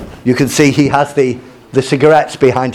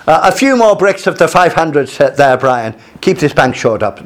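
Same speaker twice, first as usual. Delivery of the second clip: light, badly faked Irish accent; a hint of an Irish builder's accent. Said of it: "My, my, my imitation Irish accent is very bad".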